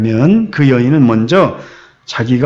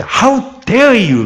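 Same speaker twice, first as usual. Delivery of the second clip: slow, higher-pitched mock rebuke; browbeating; 6 semitones higher, much slower than usual. Bystander rebuking the woman in English, mock browbeating. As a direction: act out an indignant challenge. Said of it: "이렇게 이제 윽박지르듯이".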